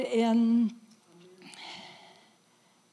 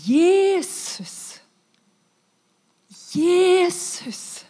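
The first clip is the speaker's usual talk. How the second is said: loud, much higher full-throated call; crying out to Jesus; 8 semitones higher, 9 dB louder, much slower than usual. Retold or imitated. Dying woman crying out to Jesus, loud call. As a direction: call his name with your last strength. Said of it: "Og så roper jeg".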